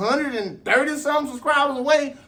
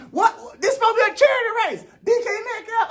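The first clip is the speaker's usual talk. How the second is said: much higher, fast, laughing in shock; laughing disbelief; 11 semitones higher than usual. Acted. Sprinter laughing in shock at D K Metcalf. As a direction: crack up at how absurd it is.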